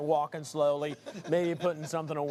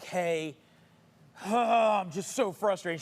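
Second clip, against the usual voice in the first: mock-frustrated, higher-pitched whine; fake frustration; 3 semitones higher, 4 dB louder, slower than usual. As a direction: put on frustration for the wife. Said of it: "I'm smiling the whole time".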